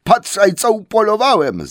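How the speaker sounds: high, loud, slow troll cry; troll calling out. Acted. Troll William shows his catch to Bert with a loud, high call. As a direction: bellow it out like a proud hunter troll. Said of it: "zawołał William".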